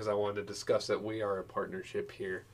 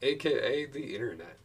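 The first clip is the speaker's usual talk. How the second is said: grand ad voice; 4 semitones higher, 5 dB louder than usual. Pretend. Mock ad.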